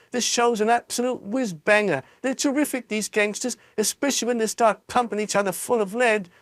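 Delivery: put-on rude boy raving about gangsters; excited rude boy. Mike TV raves about gangsters.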